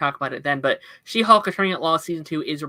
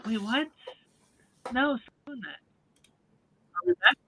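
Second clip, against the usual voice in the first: distorted mic; 6 semitones higher, 3 dB quieter than usual. Real, not acted. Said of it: "Oh, now it's worse".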